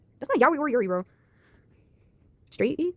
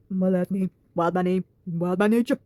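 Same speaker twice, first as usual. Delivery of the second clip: changed Madison voice; 4 semitones lower, much slower than usual. Acted. Madison introduces herself to Jack, lower voice. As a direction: slightly lower put-on voice for Madison. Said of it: "Okay, I changed her voice".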